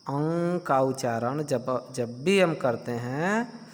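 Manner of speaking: slow, careful explanation; slow teaching. Shown as a demonstration. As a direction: spell it out slowly for the class. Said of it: "नाक और गला दोनों से करते हैं".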